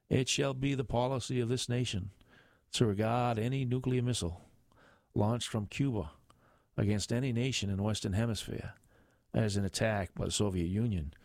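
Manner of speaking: put-on light Boston accent, presidential address; a hint of JFK's Boston speech; Kennedy Boston accent.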